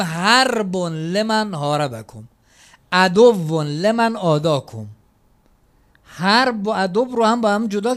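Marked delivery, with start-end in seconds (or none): 0.0-4.9 slow ziyarat recitation. Retold or imitated.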